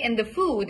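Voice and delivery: "food" with a long, pure oo; pure oo sound. Shown as a demonstration. Coach modelling "food" for a student, long pure oo. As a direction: stretch the oo in "food". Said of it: "it's a perfect oo sound".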